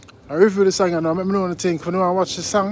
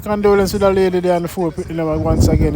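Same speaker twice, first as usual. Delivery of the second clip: louder, pumped reaction to the track; loud fired-up shout-out; 6 dB louder than usual. Real, not acted. Vlogger hyping subscribers after playing the song, loud and fired up. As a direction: hype the viewers up after the clip.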